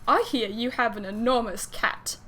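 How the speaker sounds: put-on amateur British accent for a character's line; half-convincing British accent; attempted British accent. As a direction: have a shaky go at a British accent. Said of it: "I had to do a British accent".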